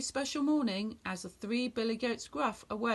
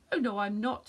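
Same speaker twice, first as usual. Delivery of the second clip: snort; 3 dB louder than usual. Acted. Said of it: "snorted the big billy goat Gruff".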